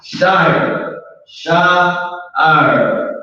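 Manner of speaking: "Shire" drawn out as shy-er with a fall; modeling pronunciation. Shown as a demonstration. Teacher having the class repeat, drawn-out shy-er. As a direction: lead the class in a long "Shire". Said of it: "You say it together".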